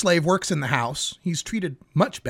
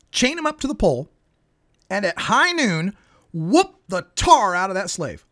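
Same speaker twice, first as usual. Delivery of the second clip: parable storytelling; 3 semitones higher than usual. Shown as a demonstration. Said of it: "Gather round, kids. It's time for a parable".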